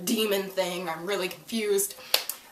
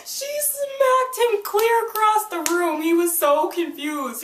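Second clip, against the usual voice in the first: laughing while telling; 14 semitones higher, 4 dB louder than usual. Real, not acted. Laughing while retelling the slap.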